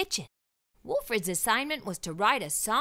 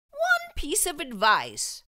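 slow, louder headmaster voice; kindly headmaster; 6 semitones higher, 3 dB louder, slower than usual. Acted. Headmaster welcoming the students, slow and grand. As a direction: speak like a grand, encouraging headmaster.

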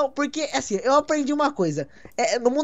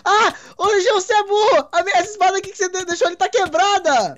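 much higher, fast frantic hero; cartoon samurai panic; 10 semitones higher, 3 dB louder than usual. Friends playing samurais, a much higher frantic cry. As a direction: wail about a broken sword.

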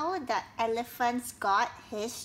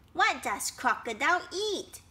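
higher, inquisitive question; eager little one wanting to know; curious baby elephant; 5 semitones higher than usual. Acted. Baby elephant asks his friend snake, curious.

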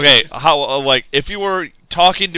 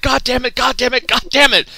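higher, exasperated mock groan; imitating an exasperated friend, higher; 9 semitones higher than usual. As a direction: play her annoyed outburst, pitched up. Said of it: "Then she's like".

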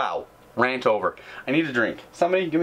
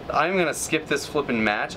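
ordinary talk, nothing marked

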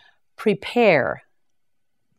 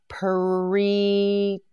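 drawn out slowly, each sound held; Preach. said long and slow for repeating; slow stretched model word; 2 semitones higher than usual. Shown as a demonstration. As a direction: stretch Preach. out so learners catch it. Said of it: "You try it".

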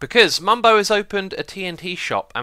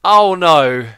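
bad acting; 8 dB louder, much slower than usual. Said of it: "I am a terrible actor".

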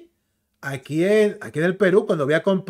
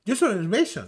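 run-together American English, imitated; higher mock American delivery; American accent; 4 semitones higher, faster than usual. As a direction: mimic American, slurring the words into one. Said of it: "Eso lo habla en norteamericano".

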